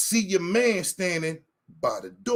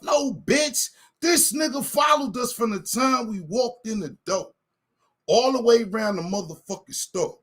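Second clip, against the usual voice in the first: angry retold yell; 2 semitones higher than usual. Refusing the manager's brush-off, raised angry yell. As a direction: throw it back at the manager hard.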